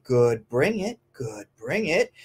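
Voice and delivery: encouraging. Shown as a demonstration. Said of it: "I say".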